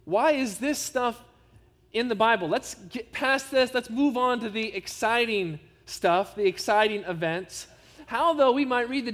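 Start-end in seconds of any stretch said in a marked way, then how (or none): 0.0-7.7 higher, whiny imitation of a bored Bible reader; mock the people who find the genealogies dull; sermon aside imitating bored readers, mock whine; mock bored complaint. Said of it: "People say".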